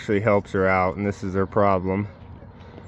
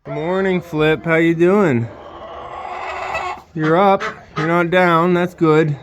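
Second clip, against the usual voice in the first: bright pet talk; 4 semitones higher than usual. Real, not acted. Owner greeting her goat in the morning, cheery. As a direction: perk up and greet her happily.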